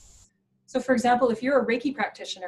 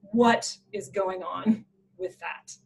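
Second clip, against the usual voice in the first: friend's disapproval; 3 semitones lower, much slower than usual. Retold or imitated. Retells friend's appalled question.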